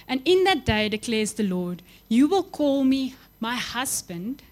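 reading scripture aloud, slowed and lifted. Acted. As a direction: proclaim the verse to the congregation. Preacher reads scripture with force.

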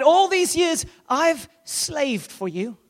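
lightly voiced bitter son; resentful older son. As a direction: protest like a wronged elder brother. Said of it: "But he replied".

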